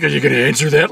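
lightly voiced taunting dickhead; mock jerk boyfriend. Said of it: "And he's like".

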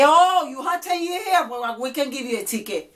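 sneering policeman; mocking cop. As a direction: scoff back like a smug cop. Mocking cop quoting back.

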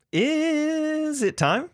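put-on high, slow child voice; little kid voice. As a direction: sound like a small kid asking. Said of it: "Use my little kid voice".

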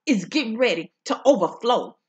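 fervent preaching cadence, rising on key words. Acted. Preacher testifying to the viewers, fervent preaching. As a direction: preach the word to the congregation.

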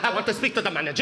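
put-on quick demand in a Filipino accent; mom's Filipino accent. Mom confronting the store salesman, indignant Filipino-accented demand. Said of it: "making fun of my mom's accent".

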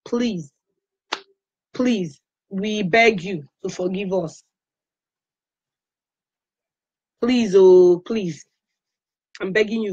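repeated pleas, each falling away; begging. Real, not acted. User begs Facebook for forgiveness, pleading. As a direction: beg them earnestly, pausing between pleas.

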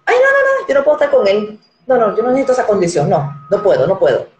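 high, whiny mock refusal, starting with a squeal; mocking a picky woman. Woman turning down a blind millionaire, in a high mocking whine. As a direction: ham up a woman turning a suitor down.

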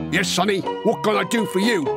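lightly voiced knowing veteran; old sergeant. Sergeant pretending not to know the boy, knowing. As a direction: play innocent as the sergeant. Sergeant repeats greeting, acted.

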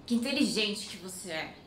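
"Que inteligente que você é" said mockingly, meaning "are you dumb?"; sarcastic intonation. Shown as a demonstration. Someone mocking a person for being dumb, sarcastic. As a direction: make "inteligente" an ironic jab. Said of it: "if someone tells you with a different intonation".

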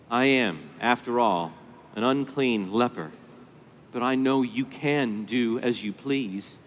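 low, soft, deferential confession; humble modesty. Retold or imitated. Unclean leper owning he is owed nothing, humbly modest. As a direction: lay it down quietly, pausing between phrases. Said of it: "I would call it modesty".

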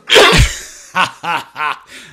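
loud burst of real laughter; real hearty laughing fit; hard laugh. Real, not acted. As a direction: crack up loudly. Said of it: "I'm laughing so hard right now".

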